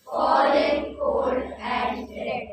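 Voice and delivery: group reciting a poem together; many voices speaking as one; chorus in unison. Acted. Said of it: "this beautiful presentation of the choral recitation".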